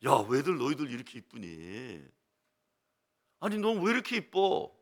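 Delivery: put-on fussing with children. Old pastor fusses over children's faces, playfully gushing. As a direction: tease the kids with fond praise. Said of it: "호들갑을 떨죠".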